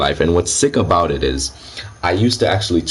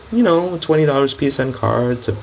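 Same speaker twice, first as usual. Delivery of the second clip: lightly put-on girl, a little higher; hint of the trolling girl voice; 4 semitones higher than usual. Troll answers guy as girl.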